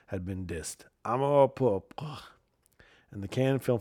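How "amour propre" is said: amour propre, slow and drawn-out in a mock French accent. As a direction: savour "Amour propre" like a Parisian. Repeating French phrase emphatically.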